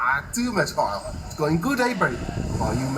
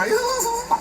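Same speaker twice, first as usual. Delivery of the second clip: short laugh. Real, not acted. Laughs at TV remark.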